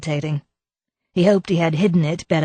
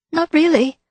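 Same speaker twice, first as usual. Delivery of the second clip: flustered, jumping high and louder; 13 semitones higher, 4 dB louder than usual. A narrator's reading. Wife flustered under the inspector's questions. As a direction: caught out, rush the denial. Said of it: "She looked flustered".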